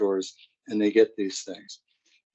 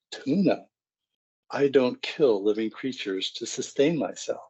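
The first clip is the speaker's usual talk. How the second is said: put-on disdainful teen; 2 semitones higher than usual. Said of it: "And she says".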